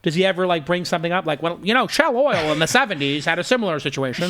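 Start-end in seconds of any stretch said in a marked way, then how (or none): 1.4-4.3 lightly put-on old-timer reminiscing about business; a hint of a bygone businessman's voice; old-timey voice. Host imagining a board member's seventies memories, old-timey voice. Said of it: "my standard old-timey voice".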